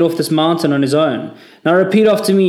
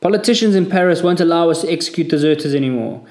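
high, loud raging rant; furious tirade; 4 semitones higher, 7 dB louder than usual. A narrator's reading. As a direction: tear into the whole section. Corporal rages at the section.

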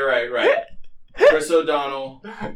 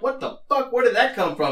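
high-pitched startled outburst; mock shock; 11 semitones higher, 4 dB louder than usual. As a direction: act out stunned disbelief, voice shooting up. Acts out a shocked reaction.

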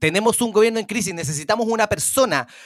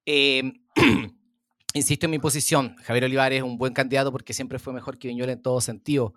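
Javier Olivares impression; 9 semitones lower than usual. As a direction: lower anchorman voice, measured and serious. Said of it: "tu imitación está muy buena".

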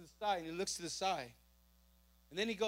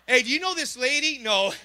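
laughing; 4 semitones higher, 7 dB louder than usual. Retold or imitated. Retold banter at police desk.

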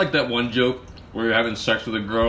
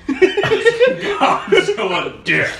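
high, slow hammy monster boast; infomercial; 7 dB louder, much slower than usual. Pretend. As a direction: announce it like a monster-movie trailer.

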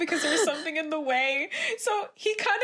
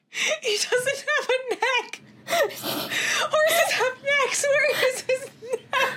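laughing through pain; 5 semitones higher, slower than usual. Real, not acted. Laughing at the neckless horse.

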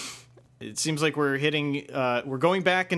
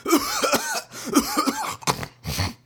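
hammed-up cough. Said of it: "feeling all right there, Pete?".

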